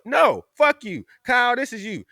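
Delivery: sudden loud high burst at Kyle; a friend shouting mock curses at his buddy; playful yell. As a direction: fake outrage at Kyle, shouting.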